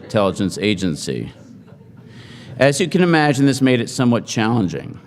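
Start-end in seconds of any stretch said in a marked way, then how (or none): 3.5-5.0 dry emphasis on somewhat; stress on somewhat. Shown as a demonstration. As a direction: lean on somewhat, drawing it out a little. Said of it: "Emphasis on the word somewhat".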